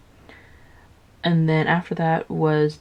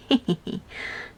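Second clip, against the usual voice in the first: mock snicker; 7 semitones higher, 5 dB quieter than usual. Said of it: "and the rat's all".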